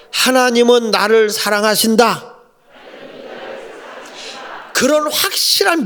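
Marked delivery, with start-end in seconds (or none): 0.1-2.3 preacher leading a sentence for the congregation to echo; lead a call to repeat. Shown as a demonstration. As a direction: say it out loud for the church to repeat. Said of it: "따라합시다".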